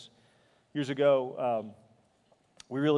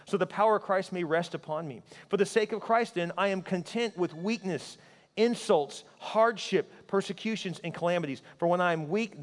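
raised, emphatic Bible reading; scripture reading; 6 semitones higher, 5 dB louder than usual. Acted. Preacher reads Paul's words to the congregation, raised and emphatic.

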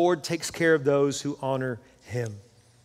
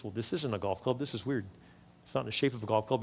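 puzzled inner thought; 5 semitones lower, 9 dB quieter, faster than usual. Acted. Arnold puzzling over the package.

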